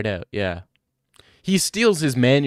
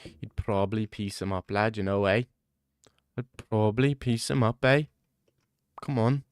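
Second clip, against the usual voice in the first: Tom Aspinall impression; 2 semitones lower than usual. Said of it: "It's my impression of Tom Aspinall in a Whisper".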